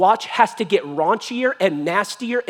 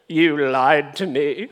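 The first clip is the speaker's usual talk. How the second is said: wounded accusation; 4 semitones lower, slower than usual. Acted. Acts Delilah accusing Samson, hurt.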